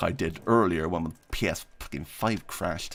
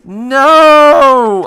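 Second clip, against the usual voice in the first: sudden high yelp of alarm; startled shout; 16 dB louder than usual. Real, not acted. Streamer yelps at a sudden shock, loud and high. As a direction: yell it out, caught off guard.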